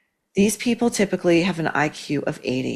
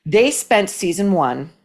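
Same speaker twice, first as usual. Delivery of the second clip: deliberately slower, calming racing thoughts; slowed down; slower than usual. Shown as a demonstration. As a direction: ease the pace right down on purpose. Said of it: "I'm gonna try to slow them down".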